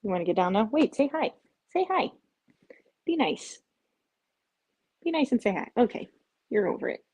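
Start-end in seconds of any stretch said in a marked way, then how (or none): 0.7-5.7 coaxing pet voice. Real, not acted. Coaxing cat to greet viewers.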